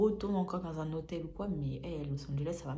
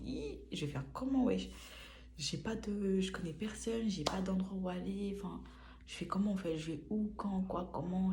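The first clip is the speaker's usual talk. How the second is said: higher panicked questions; mock panic; 3 semitones higher than usual. The speaker panicking about where to live, voice pitched up. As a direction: spiral into helpless panic. Retelling her own panic.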